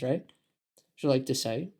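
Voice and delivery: ordinary talk, nothing marked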